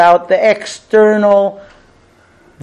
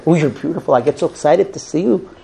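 infatuated gush; 4 semitones lower, 5 dB quieter, much faster than usual. Retold or imitated.

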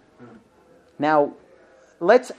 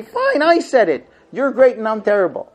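sarcastic concession; 4 semitones higher, 4 dB louder than usual. Retold or imitated. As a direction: drag out the fake surrender.

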